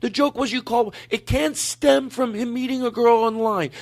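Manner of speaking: put-on lightly high girlfriend voice; woman's voice. Continues girlfriend voice.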